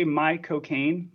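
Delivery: "my cocaine" drawn out slowly, lifting at the end; slow admission. Shown as a demonstration. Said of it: "as if it's, you're admitting to having drugs".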